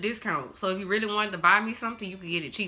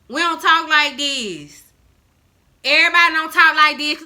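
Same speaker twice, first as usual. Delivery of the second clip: mocking stereotype voice; 6 semitones higher, 9 dB louder than usual. Shown as a demonstration. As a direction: drag it out like an exaggerated caricature. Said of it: "not everybody that's black talk like that".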